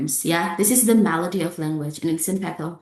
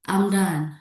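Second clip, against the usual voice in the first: I'M DONE with a final fall on "done"; falling intonation. Shown as a demonstration. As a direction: let "done" drop, as a conclusion. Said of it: "Falling intonations".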